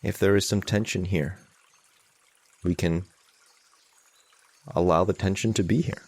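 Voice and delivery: measured meditation guidance with long pauses; guided meditation. Real, not acted. Teacher leading an online group in calming anxiety, guided meditation. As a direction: guide them gently, leaving long silences.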